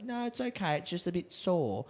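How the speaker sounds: a hint of a brave kid playing it down; imitating Bill. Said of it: "He was like".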